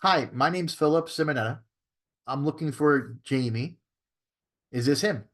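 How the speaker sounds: controlled, unhurried sales-call introduction; changed phone tonality. Shown as a demonstration. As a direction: open the call measured, stretching the request. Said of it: "I change my tonality".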